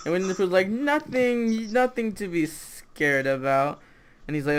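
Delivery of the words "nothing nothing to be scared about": drawn out, starting high and sinking; falsely reassuring. Acted. Pooh hiding the accident, drawn-out reassurance. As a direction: stretch it into a mock soothing cover-up.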